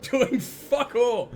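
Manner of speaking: slow put-on Southern drawl; mock Southern accent. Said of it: "approximation of your accent".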